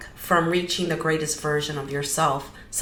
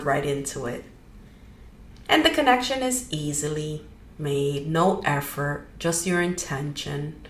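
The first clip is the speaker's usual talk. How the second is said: easy guided-meditation delivery with pauses. Real, not acted. Leading listeners into grounding, guided meditation. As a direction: guide listeners gently, phrase by phrase.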